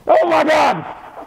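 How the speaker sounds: a high, drawn-out startled cry; high, slow "oh my God" of alarm. Real, not acted. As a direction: jump up in pitch, stretch it out. Spots something mid-sentence.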